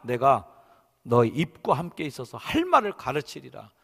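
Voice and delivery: loud, emphatic vow; angry outburst. Acted. God answering Moses' claim he can't speak, angry. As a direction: declare it forcefully, still cross. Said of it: "화가 이제 버럭 내시는".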